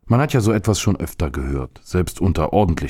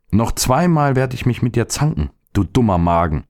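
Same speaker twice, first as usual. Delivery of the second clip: put-on boy voice; 5 semitones higher than usual. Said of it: "sagte er".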